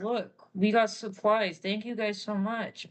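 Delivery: slow thankful voice; drawn-out thanks to the guys; lightly voiced grateful elder; slow, grateful Doc. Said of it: "Doc's like".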